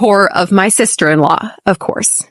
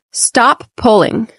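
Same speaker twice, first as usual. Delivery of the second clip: slow model phrase. Shown as a demonstration. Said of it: "Repeat after me".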